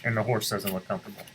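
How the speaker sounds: ordinary delivery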